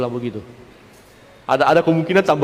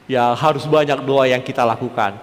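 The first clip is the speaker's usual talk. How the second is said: ordinary talk, nothing marked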